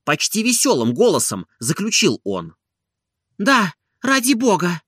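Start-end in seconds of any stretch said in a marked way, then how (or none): 3.4-4.8 trusting. A narrator's reading. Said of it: "доверчиво ответила она".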